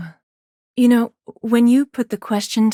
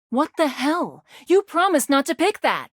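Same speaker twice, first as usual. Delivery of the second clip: pitched up, affronted complaint; indignant protest; 4 semitones higher than usual. Acted. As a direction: protest a broken promise, voice rising high. Character protests player's broken promise.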